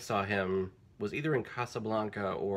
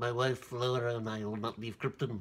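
softer, lisping, mock imitation voice. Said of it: "he definitely does like this in the movie".

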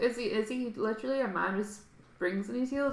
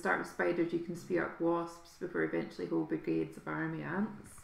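ordinary delivery

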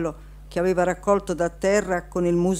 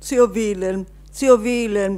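loud shout, crying out; 4 semitones higher, 5 dB louder than usual. Bebi hugs and kisses Uncle Willem, shouting. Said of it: "gridava Bebi abbracciandolo e baciandolo".

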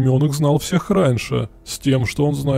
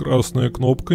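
ordinary delivery, nothing marked

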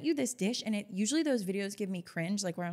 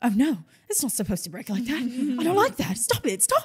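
raised, put-on British accent; 3 semitones higher, 7 dB louder than usual. Imitating a TikTok creator reacting to things breaking: imitating a British accent. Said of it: "She has, like, a British accent".

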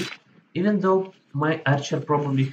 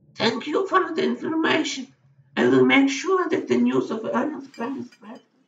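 put-on charming, untroubled old woman voice, very high-pitched; 11 semitones higher than usual. Reading a game scene, voicing the old woman who hands you gemstones: unconcerned old woman. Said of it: "The charming old woman sips her tea, seemingly unconcerned by the death she has just ordered".

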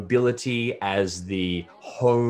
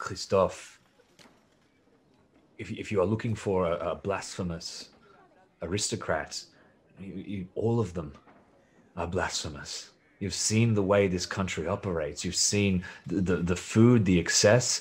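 very soft, very quiet preacher-like delivery; 4 dB quieter than usual. Retelling the words a man said after he sat back down, in a very quiet voice. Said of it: "in a very quiet voice".

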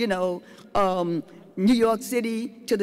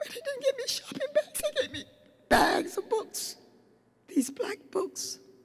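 weeping, tearful, crying through the words; 14 semitones higher, 6 dB quieter than usual. Remembering people who gave her bags of books, crying.

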